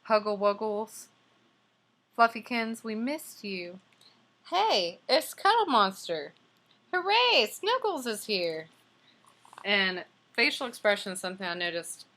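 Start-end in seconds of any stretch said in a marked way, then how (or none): 0.1-3.8 high, loud, gushing bunny voices; lightly voiced happy bunnies; excited bunnies. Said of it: "Before you could say". 4.5-8.7 high, loud cheer, hooray squealed very high; hammed-up bunny cheer; cheering bunnies. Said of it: "Before you could say".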